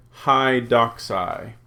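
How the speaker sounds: "doxai" stressed on its first syllable, slow. Shown as a demonstration. Teacher shows students the Greek accent, first syllable of "doxai" stressed. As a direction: lean on the DOX of "doxai". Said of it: "give the English stress accent".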